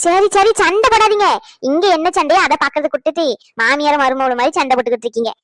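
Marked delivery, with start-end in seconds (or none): 0.1-1.3 loud call of sari, sari to break up the fight; loud plea. Acted. Man calls loudly to his quarrelling mother and wife to stop fighting.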